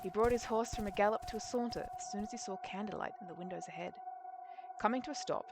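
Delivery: measured, understated storytelling read; story narration. A narrator's reading. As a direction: narrate the scene like an audiobook. Reads the story aloud.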